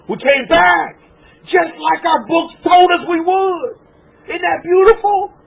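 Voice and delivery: high, loud, tears of joy breaking through; real tearful joy, voice catching. Real, not acted. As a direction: cry out in overwhelmed happiness. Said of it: "While these tears are coming down my eyes".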